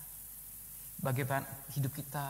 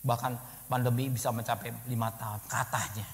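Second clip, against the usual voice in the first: ordinary talk, nothing marked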